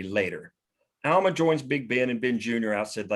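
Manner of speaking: ordinary talk, nothing marked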